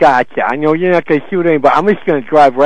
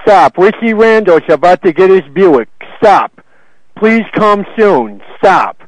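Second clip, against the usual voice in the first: mock telegram; slower than usual. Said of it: "would you send them a telegram".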